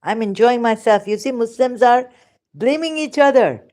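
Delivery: usual speaking voice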